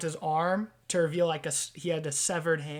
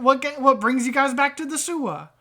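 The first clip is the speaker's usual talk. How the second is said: chummy wiseguy rat; 8 semitones higher, 10 dB louder than usual. Acted. Rat trader greeting visitors to the sewer, chummy wiseguy. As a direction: hail old pals as a sewer rat. Game master voices rat character.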